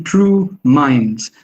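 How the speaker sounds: slow "true minds" with both words stressed; two stressed syllables. Shown as a demonstration. Lecturer showing the line ends on two stresses. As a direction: give true and minds equal weight. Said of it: "end with two stressed syllables".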